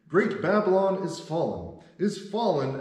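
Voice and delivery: high, loud proclamation of doom; mighty cry. A narrator's reading. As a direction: cry it out with a strong voice. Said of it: "cried mightily with a strong voice".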